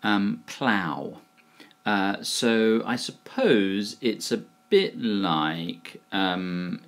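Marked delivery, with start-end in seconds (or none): 0.5-1.2 plough repeated clearly, rhyming with cow; pronunciation demo. Shown as a demonstration. Teacher repeats the word for viewers, plough clearly modelled with OW. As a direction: say plough with an OW ending and a falling tune. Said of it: "It's pronounced plough".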